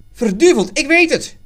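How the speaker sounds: loud, high-pitched sudden cry; exclaiming. A narrator's reading. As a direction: shout out a sudden realization. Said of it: "riep hij uit".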